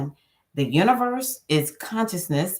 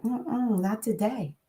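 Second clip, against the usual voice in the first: quiet, firm sassy no; defiant refusal; 5 dB quieter than usual. Retold or imitated. Refusing the world's negative spell, quiet and defiant. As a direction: turn the world down flatly. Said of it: "And I'm like".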